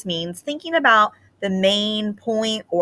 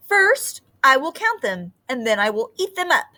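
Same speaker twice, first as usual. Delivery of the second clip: greedy snake; 6 semitones higher than usual. Acted. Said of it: "said the snake".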